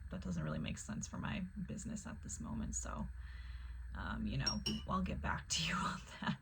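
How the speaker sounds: retold gentle brush-off, easing downward; very kindly. Politely turning down the ad salesman, kindly. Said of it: "I just said very kindly".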